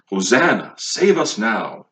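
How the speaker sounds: emphatic, slowed-down appeal; earnest, stretched-out plea; passionate plea. Acted. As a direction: cry it out with weight and purpose. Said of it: "It's very passionate. It's filled with meaning".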